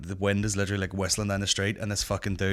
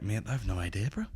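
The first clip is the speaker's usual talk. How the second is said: deadpan joke; 6 dB quieter than usual. Retold or imitated. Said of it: "trying to be funny with him".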